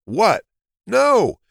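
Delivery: high, loud furious disbelief; fuming. A narrator's reading. Hare fumes at losing the race. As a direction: explode in outrage. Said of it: "Jules fumed".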